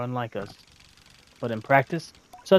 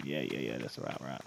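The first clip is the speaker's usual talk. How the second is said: low, quiet Southern man trying out the voice; southern accent; 12 semitones lower, 15 dB quieter than usual. Shown as a demonstration. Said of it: "I used a southern accent".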